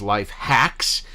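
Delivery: "hacks" leaned on with disdain; stress on hacks. Real, not acted. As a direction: hit the word "hacks" hard and drawn out. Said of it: "notice how I emphasize the word hacks".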